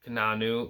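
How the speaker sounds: Keanu said as kuh-NAH-noo; unsure pronunciation. Shown as a demonstration. Movie fan checking the actor's name, Keanu pronounced kuh-NAH-noo. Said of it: "I hope I'm pronouncing that right".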